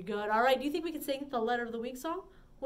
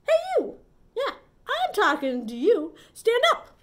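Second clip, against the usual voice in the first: high, loud playful command; teasing game shout; mock bossy shout; 10 semitones higher, 10 dB louder than usual. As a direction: call out like a pretend drill sergeant.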